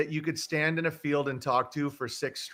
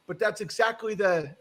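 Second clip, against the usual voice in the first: higher-pitched imitated Southern accent; deep Southern accent; 6 semitones higher than usual. Host quoting the neighbor about the house, Southern accent. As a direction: put on a Southern accent for the quote. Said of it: "deep Southern accent".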